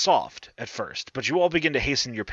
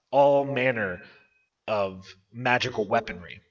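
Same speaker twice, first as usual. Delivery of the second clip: game master narration. Acted. GM describes gold and chests.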